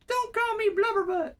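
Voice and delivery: high whiny mocking imitation; mock him in a high whiny voice. Mocking Jax's complaint in a high whiny voice. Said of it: "he's literally over there like".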